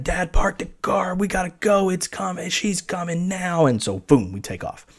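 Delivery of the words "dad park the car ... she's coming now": high, strained mock yell without volume; retold yell. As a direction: imitate calling out urgently, held back. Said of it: "I just yell at my dad".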